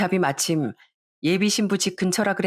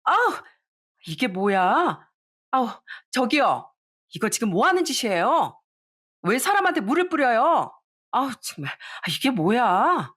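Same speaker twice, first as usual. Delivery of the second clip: shrieking protest; 4 semitones higher than usual. Retold or imitated. Bride splashed with water, protesting to the staffer in high squeals. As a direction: squeal it out, face dripping with water. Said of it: "소리를 지르더라고요".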